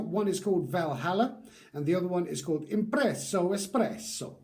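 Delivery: bad Italian accent. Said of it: "Sorry about that really bad Italian accent".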